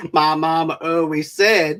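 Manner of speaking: lightly voiced slow Southern simpleton; a hint of a drawling movie-character impression; Forrest Gump. Host imagines him chatting on the bench, light impression. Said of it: "All I can think of is Forrest Gump".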